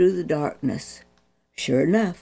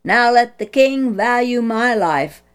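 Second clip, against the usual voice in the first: loud, higher call to the king's camp; 5 semitones higher, 4 dB louder than usual. Acted. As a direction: call across to the king holding up the spear. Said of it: "David called".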